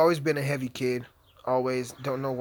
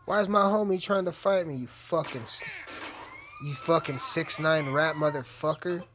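annoyed at game; 2 semitones higher than usual. Real, not acted. Homie fights him in game.

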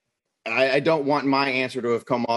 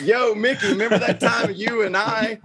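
imitating father-in-law; 8 semitones higher than usual. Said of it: "And he's like".

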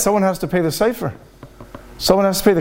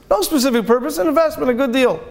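higher, offhand brush-off; casual shrug; 6 semitones higher than usual. Retold or imitated. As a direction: toss it off lightly, like a shrug. Rich man brushing off question.

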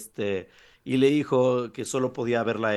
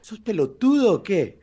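louder, higher Argentine jab; Argentine accent; 6 semitones higher, 6 dB louder than usual. Pretend. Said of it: "Ya se te pegó lo argentino".

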